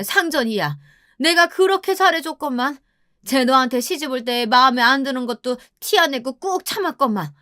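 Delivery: high, whiny complaint of a wronged mother; mother-in-law grumbling and refusing to budge; aggrieved mother-in-law. Acted. Voices mother-in-law refusing to leave.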